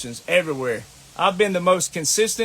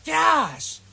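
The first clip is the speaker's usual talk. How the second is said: exasperated shout; 7 semitones higher than usual. Real, not acted. Exasperated outburst at veterans.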